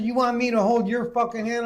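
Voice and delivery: high, incredulous retort; retold indignation. Patient answering the nurse's offer, retold indignation. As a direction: throw the offer back, mock outraged.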